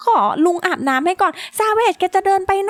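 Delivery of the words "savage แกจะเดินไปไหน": higher-pitched, drawn-out call; calling after someone. Pretend. Player calls after Savage as he wanders off, calling out. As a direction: call after them, stretching the last word.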